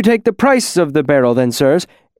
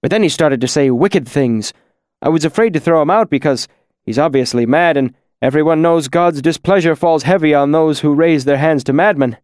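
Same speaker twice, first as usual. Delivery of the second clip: frightened pleading; 5 semitones higher, 3 dB louder than usual. Acted. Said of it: "His voice broke".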